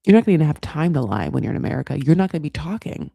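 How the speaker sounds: lightly voiced Dev laying down the law; imitating Dev. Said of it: "He's like".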